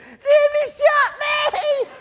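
put-on high, slow wailing child; hammed-up tearful tattling; crying little girl. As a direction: sob it out like a wounded little girl. Girl crying to her mother.

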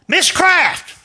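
sudden high-pitched call to someone hard of hearing; yelled name. Retold or imitated. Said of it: "I just yelled".

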